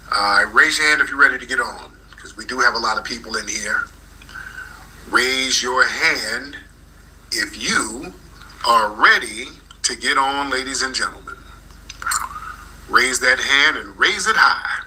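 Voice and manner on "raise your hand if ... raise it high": slow, drawn-out hype to the room; announcer's call. Real, not acted. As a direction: stretch out the invitation like an emcee. Host calls the crowd up.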